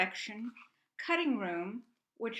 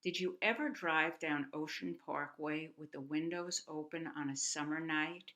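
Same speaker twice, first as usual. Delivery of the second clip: poetry reading; 3 semitones lower, 4 dB quieter than usual. Acted. Reads third poem aloud.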